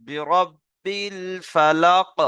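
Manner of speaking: বিরব্বিল ফালাক spoken slowly, syllables clear; slow model. Shown as a demonstration. Teacher leading choral repetition. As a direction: say it slowly for the class to repeat. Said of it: "সবাই বলেন".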